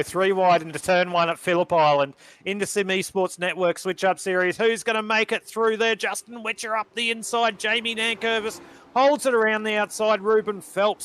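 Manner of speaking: excited race call. Real, not acted. Commentator calls cars going three wide for viewers, excited. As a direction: call the battle with rising excitement. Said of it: "Sorry, I'm getting too excited".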